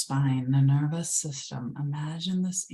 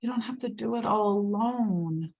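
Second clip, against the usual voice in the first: higher, voiced, gentle reassurance; Mother Earth, spoken; 5 semitones higher than usual. Mother Earth comforting the listener, voiced and higher. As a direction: say it aloud as the caring earth. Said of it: "And it's saying".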